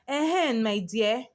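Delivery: a hint of put-on sweetness; mildly sugar the words to lure her in; sickeningly sweet. Senior luring the junior to her side, lightly sweet. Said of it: "her tone suddenly sickeningly sweet".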